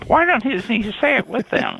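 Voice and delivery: high, puzzled put-on voice; a listener's high puzzled voice; mock puzzled listener. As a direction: play a confused listener. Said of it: "they're going".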